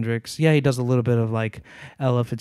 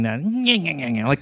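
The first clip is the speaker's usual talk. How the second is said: imitated nasal whine. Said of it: "what you were doing".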